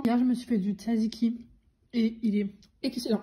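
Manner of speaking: parler en mâchant; bouche pleine. Real, not acted. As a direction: avaler entre les mots. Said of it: "je parle la bouche pleine". (la bouche pleine)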